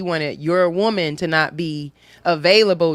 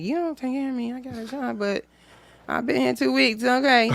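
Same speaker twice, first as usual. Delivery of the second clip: retold comeback; 5 semitones higher, 5 dB quieter than usual. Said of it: "looking at him like".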